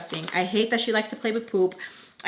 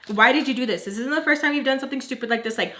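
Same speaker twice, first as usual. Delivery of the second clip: retold yelling; 3 semitones higher, 4 dB louder than usual. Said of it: "So we're yelling".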